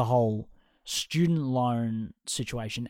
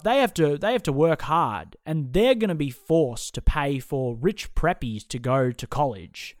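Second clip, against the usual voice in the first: mocking conservatives. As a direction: mimic them with mild scorn. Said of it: "They're like".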